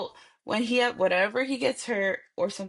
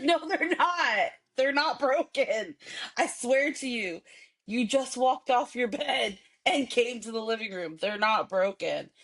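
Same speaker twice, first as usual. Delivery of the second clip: exasperated insisting; 3 semitones higher than usual. Retold or imitated. Mom telling her son his legs aren't broken, high and exasperated. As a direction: drag it out in disbelief.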